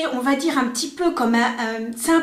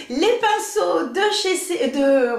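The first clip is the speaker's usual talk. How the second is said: slow, giggling through the brand name; laughing stumble; 3 semitones higher, slower than usual. Real, not acted. Vlogger fumbling the brush brand name, laughing. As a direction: trip over the name and laugh. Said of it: "mais je vais pas y arriver".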